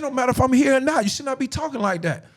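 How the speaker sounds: high-pitched telling-off; mock maternal reprimand, high; retold maternal scolding. Retold mother scolding her son.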